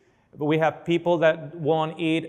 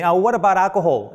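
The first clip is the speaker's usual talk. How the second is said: quick, louder mock wife asking; a hint of the wife cutting in; wife's question; 3 semitones higher, 4 dB louder, faster than usual. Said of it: "the wife said to me".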